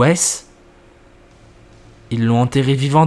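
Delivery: narration posée, plus grave dans les apartés du narrateur; lecture de récit. A narrator's reading. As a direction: lire l'histoire en jouant sobrement les dialogues. Lit une histoire à voix haute. (narration de fiction à voix haute)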